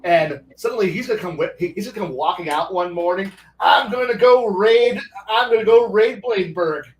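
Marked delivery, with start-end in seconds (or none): 3.6-6.9 swagger out like a proud monster; louder self-satisfied dragon boast; cocky dragon. Pretend. Dragon boasting, voiced in story.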